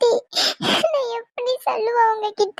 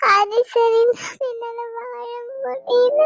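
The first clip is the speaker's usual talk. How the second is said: breaking down, slow; slower than usual. Acted. Breaking down alone.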